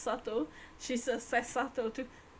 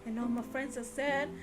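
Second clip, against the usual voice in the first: mock Susato; 2 semitones lower than usual. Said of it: "She's like".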